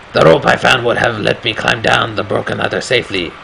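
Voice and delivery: put-on lightly accented storyteller voice; narrator in a put-on accent. Player voicing the game's hero, light put-on accent. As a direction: read the game narration in the hero's accent. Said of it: "that's the accent I want him to speak in".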